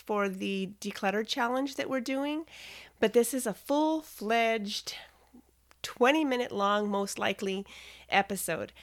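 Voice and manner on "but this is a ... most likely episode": exhausted. Real, not acted. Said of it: "if I sound exhausted, it's because I am".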